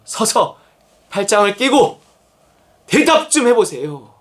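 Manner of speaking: lightly acted, impatient challenge with pauses; mock demand. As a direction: imitate someone demanding an answer from God. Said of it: "뭐 이러고 있는 거예요". (따지며 답을 재촉하는 흉내)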